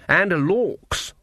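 high-pitched exclamation; thundered. A narrator's reading. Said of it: "she thundered".

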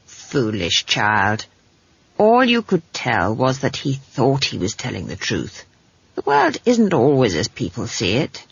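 low, measured granny rebuke; a hint of a stern teacher-witch; lightly voiced stern old witch. Granny corrects the foolish child, low and mildly stern.

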